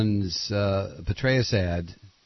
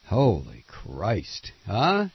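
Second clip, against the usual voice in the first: stunned disbelief; 4 semitones lower, much slower than usual. Real, not acted. Reacting to McCain's quote.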